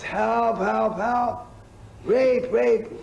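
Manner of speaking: high, loud cries of help; yelling for help. Retold or imitated. Old woman on Second Avenue yelling to police, high and loud. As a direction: shriek it out like an old woman in a panic. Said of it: "and she yells".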